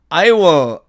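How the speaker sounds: "I will" run together as "ai-wo"; contracted I will. Shown as a demonstration. Teacher demonstrating I will shortened, contracted. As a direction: blend "I will" into "ai-wo", no clear L. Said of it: "이것을 줄이면".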